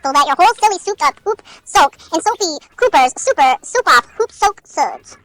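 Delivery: put-on tentative Boston accent, read aloud. Reader trying Boston on a soap tongue twister, Boston accent. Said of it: "Oh my gosh, Boston".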